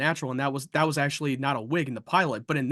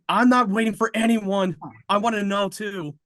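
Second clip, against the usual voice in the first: impatient retort; 4 semitones higher than usual. Retold or imitated. Doctor refusing to wait for Lionel, impatient.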